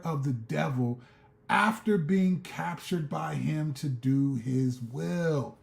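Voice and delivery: slow, measured reading of scripture; reading the Bible passage to viewers, slow and measured. Acted. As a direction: read the verses slowly and deliberately. Reads scripture slowly.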